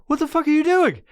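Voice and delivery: high-pitched frantic demand; panicked questioning. Retold or imitated. Stoned man questioning himself, panicked. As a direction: squeal it in comic alarm. Acting out own panicked inner exchange.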